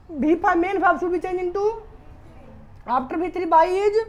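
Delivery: slow, emphatic rule recitation. Shown as a demonstration. Teacher reciting the passive rule to class, slow and emphatic. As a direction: spell out the rule slowly, word by word.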